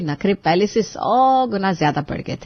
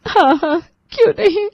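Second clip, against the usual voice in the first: sarcastic; 7 semitones higher than usual. Acted. Sarcastic reply to Garima.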